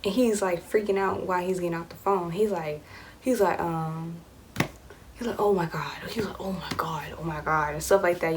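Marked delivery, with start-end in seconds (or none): 5.4-7.7 deep dude voice. Retold or imitated. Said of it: "in dude voice, like, deep voice".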